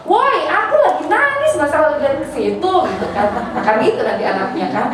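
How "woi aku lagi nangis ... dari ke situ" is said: put-on child's indignant protest, pitched much higher; mock child protest. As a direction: play the crying kid who won't be distracted. Child protesting being distracted.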